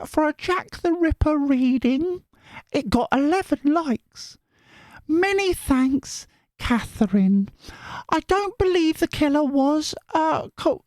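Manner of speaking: high put-on voice reading a viewer comment; falsetto reading voice. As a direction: read the comment in a sweet high voice.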